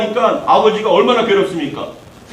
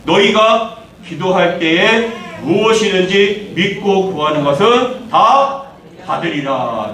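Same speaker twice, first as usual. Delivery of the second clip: slow, solemn reading of the verse; slow scripture reading; slower than usual. Acted. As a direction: read the verse slowly and deliberately. Reads the scripture verse slowly. (성경 구절을 천천히 낭독)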